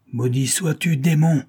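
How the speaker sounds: rising to a shout on démon; the wounded villain curses the detective; cursing cry. Acted. Wounded criminal cursing Nick, shouting. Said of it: "cria-t-il à Nick".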